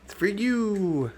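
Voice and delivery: slow, very high excited coo; high sing-song coo. Real, not acted. Owner cooing to her pet bird, high and slow. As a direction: stretch it high and sweet for the bird.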